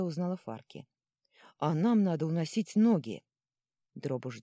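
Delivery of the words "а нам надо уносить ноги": louder, urgent call; urgent exclamation. Acted. Companion wants to flee the troll, urgent loud call. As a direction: urge everyone to run, raising the voice.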